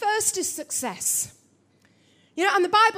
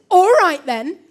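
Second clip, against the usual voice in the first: curt retort; 10 dB louder than usual. Retold or imitated. Snapping back at bossy husband.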